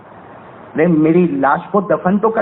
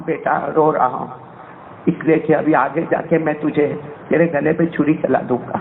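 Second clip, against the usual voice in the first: grieving father; 6 semitones lower than usual. Acted. Father answers son in tears.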